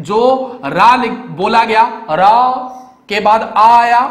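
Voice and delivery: रा stretched, then आ spelled out slowly; teacher breaking राम into letters; sounding out letters. Shown as a demonstration. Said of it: "वह क्या क्या लिखे हैं?".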